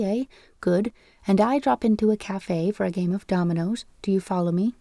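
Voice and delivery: falsetto voice. Acted. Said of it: "he was exclaiming in a falsetto voice".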